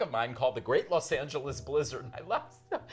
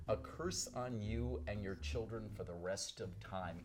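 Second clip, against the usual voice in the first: simple quiet curse; 3 semitones lower, 6 dB quieter than usual. Retold or imitated. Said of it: "very simply".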